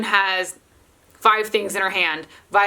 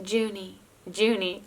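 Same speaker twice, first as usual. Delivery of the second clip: soft toddler imitation; 7 dB quieter than usual. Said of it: "leans over to June and goes".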